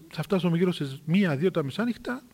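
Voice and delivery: subdued, anxious wondering; worried musing. Retold or imitated. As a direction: fret quietly, as if to oneself. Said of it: "τι ανησυχούσε".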